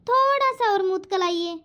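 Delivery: lisped word मुतकुलाइए, with the s of मुस्कुराइए turned to t; childlike lisp on मुतकुलाइए; lisping bride. Acted. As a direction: lisp मुतकुलाइए like a shy bride who can't say her s sounds. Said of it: "ये तो तोतली है".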